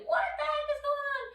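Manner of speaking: high, fast startled cat voice; be the spooked kitty asking what's up; scared cat. Pretend. Teacher voicing a scared cat for kids. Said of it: "they're like".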